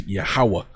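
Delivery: Yahweh said as YAH-weh, stress on the first syllable; careful Hebrew-style Yahweh; Yahweh pronounced. Shown as a demonstration. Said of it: "that's how you pronounce it".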